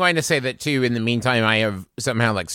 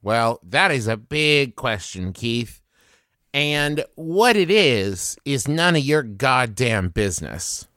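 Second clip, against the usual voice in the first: intimidating; slower than usual. Acted. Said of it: "intimidate him".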